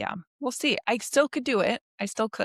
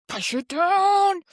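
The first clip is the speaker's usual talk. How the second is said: stern self-command; 11 semitones higher, 5 dB louder, slower than usual. Retold or imitated. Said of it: "learned, like".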